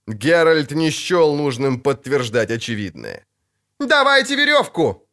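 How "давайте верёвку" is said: high, frantic yelling; орать. A narrator's reading. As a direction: yell desperately for help. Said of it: "орал Лютик". (истошно орать высоким голосом)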